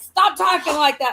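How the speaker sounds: retold, mildly exasperated reprimand; annoyed brothers. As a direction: imitate a brother telling her off. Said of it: "my brothers get mad at me".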